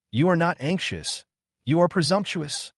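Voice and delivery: high sharp rebuke; furious. Acted. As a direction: snap it at her, furious.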